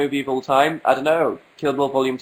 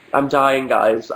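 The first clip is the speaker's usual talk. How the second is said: croaky with a cold; sick voice; slower than usual. Real, not acted. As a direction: talk like you have a cold. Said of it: "I have a cold".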